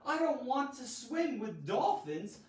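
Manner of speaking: high, drawn-out dramatic protest; overblown, high-pitched outcry; over-the-top dramatic. Shown as a demonstration. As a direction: play it big and melodramatic. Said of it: "since this is so dramatic, over the top".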